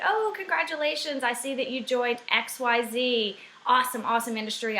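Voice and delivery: mock-gush over her news, quick at the end; all excited. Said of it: "like, all excited".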